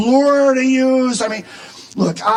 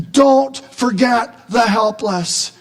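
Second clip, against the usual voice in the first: "Don't forget the helpless" slow and weighted; "Don't forget the helpless" as a deliberate, spaced-out command; emphatic plea; slower than usual. Acted. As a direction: lean slowly on each word of "Don't forget the helpless". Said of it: "And then the emphatic".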